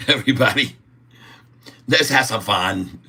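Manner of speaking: a hammed-up broken-English Chinese accent; mock Chinese accent. Streamer shows viewers his mock Chinese accent. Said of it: "I can speak a Chinese".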